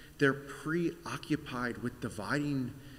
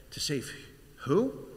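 puzzled; 3 semitones higher than usual. Acted. Puzzled passengers asking.

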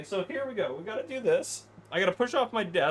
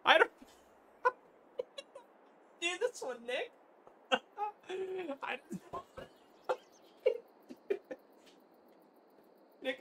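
real high-pitched laughing fit; helpless laughter; 11 semitones higher, 3 dB quieter than usual. Real, not acted. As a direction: barely get the words out through laughter. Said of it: "I'm laughing so hard".

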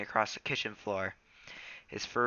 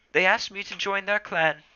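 Rusty voice; 11 semitones higher, 9 dB louder than usual. Acted.

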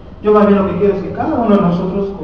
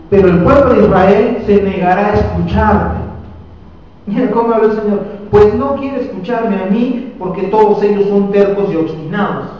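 proclaimed scripture; 2 semitones higher, 4 dB louder than usual. Acted. Preacher reading God's warning to the congregation, proclaimed. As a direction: proclaim it loud and measured, as the Lord's own words. Reading the Lord's words aloud in sermon.

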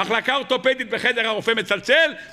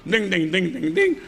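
imitated monitor beeping; 3 semitones lower, faster than usual. Hospital monitor starting to beep, imitated dinging. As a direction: chime like a hospital machine. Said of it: "המכשיר הזה שעושה מנגינות".

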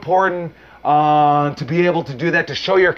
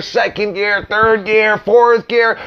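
each gear a notch higher and louder, building; building up through the gears; 5 semitones higher, 3 dB louder, slower than usual. Shown as a demonstration. Coach showing students how a promo builds, rising louder. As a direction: climb in pitch and volume with each gear. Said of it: "there's time to go to first gear".

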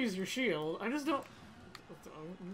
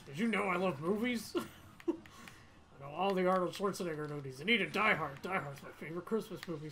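Snake voice; 4 semitones lower, 5 dB quieter, faster than usual. Acted. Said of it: "how bad my Snake impression".

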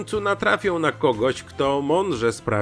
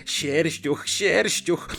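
mocking; 4 semitones higher, much slower than usual. A narrator's reading. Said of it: "śmiał z nieporadności zwierzęcia".

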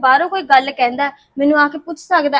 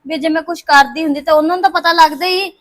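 upset protest; 3 semitones higher, 5 dB louder than usual. Acted. Daughter arguing with her mother.

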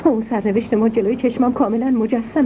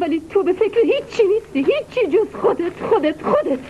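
accusing; 6 semitones higher than usual. Acted. Mother accuses son of selfishness.

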